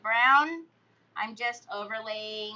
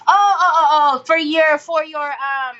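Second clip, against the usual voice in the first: excited; 2 semitones higher, 12 dB louder than usual. Real, not acted. Sudden realisation, loud.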